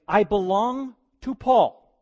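high, loud, slow mock boast; a smug follower bragging; faction member. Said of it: "They were saying".

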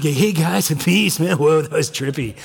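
lightly voiced laid-back surfer dude with a laugh; a hint of a chill hippie saying peace, man; stoner surfer Jesus. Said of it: "I'm not trying to be blasphemous".

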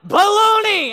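high, loud full shout; imitated shout. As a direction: belt it across the store. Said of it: "he was just like".

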